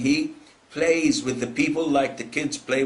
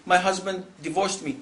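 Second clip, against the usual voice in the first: slightly raised, mock-tearful complaint; imitated crying; 4 semitones higher than usual. Divorced wife telling the sheikh, imitated crying. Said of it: "and she's crying".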